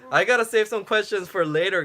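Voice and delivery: laughing through the words; amused, laughing aloud. Real, not acted. Laughing while signing off.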